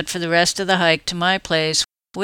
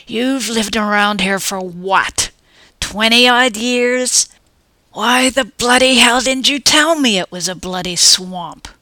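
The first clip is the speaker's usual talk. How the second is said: slow, louder, higher furious rant; angry scolding; 5 semitones higher, 6 dB louder than usual. Acted. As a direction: tear into her, indignant. Furious partner scolding in swamp.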